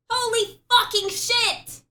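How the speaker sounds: high, loud, slow swearing; shocked exclamation. Real, not acted. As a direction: blurt it out in shock. Shock at finding it.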